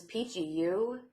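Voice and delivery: dry sarcastic "Peachy". Retold or imitated. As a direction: lay the sarcasm on thick. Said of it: "so much sarcasm".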